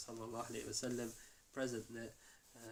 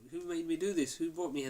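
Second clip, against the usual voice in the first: retold anger; 4 semitones higher, 5 dB louder than usual. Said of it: "he's angry and he says".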